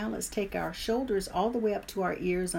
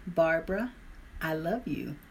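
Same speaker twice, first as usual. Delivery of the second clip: smiling affirmation; 2 semitones lower than usual. Shown as a demonstration. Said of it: "with a smile".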